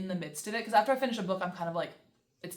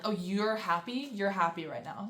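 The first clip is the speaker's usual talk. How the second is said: mock mad. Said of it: "mad, like".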